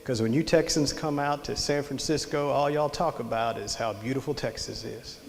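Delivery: quietly earnest retold explanation; soft and matter-of-fact, completely serious; dead serious. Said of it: "as serious as he could be".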